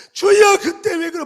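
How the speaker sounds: loud, high, slow whine at the Lord; mock complaining prayer. A grumbling worshipper complaining to God in prayer, mock loud whine. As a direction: wail out a petty grievance in prayer, hammed up. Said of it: "막 그러면서 막".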